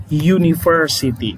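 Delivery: university said as yoo-ni-ver-si-ty; English example word. Shown as a demonstration. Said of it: "Kenapa university?".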